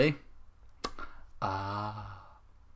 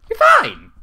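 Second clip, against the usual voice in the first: much higher, louder chirp; high squeaky cheer; 13 dB louder than usual. Acted. Pinky answers Twilight with a high squeaky cheer. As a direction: squeal it brightly.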